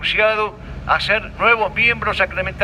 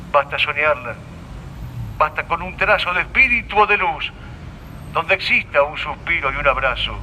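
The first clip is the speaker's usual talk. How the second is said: poem recitation; 2 semitones lower than usual. Acted. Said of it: "Bien decía José María Pemán".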